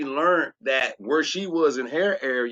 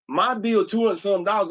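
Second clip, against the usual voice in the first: mock hollering; 4 semitones higher than usual. Real, not acted. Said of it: "I'm hollering here".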